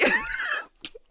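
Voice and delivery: real laugh at the memory; high burst of laughter. Real, not acted.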